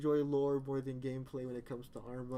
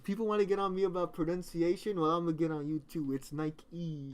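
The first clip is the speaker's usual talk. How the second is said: mock rant; 3 semitones higher, 5 dB louder than usual. Mock rant about pronunciation.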